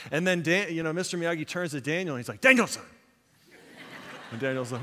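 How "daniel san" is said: sudden high, loud call of the name; acted martial-arts master's shout; stern master calling out. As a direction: call the pupil to attention. Acted master calling sharply to pupil.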